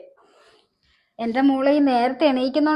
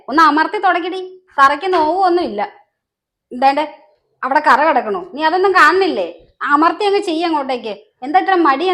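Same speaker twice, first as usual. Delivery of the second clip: mildly raised, nagging scold; 2 semitones higher, 4 dB louder than usual. Acted. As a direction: scold her for slack work, a bit louder. Mother-in-law scolds daughter-in-law at work. (ശകാരിക്കുന്ന സ്വരം)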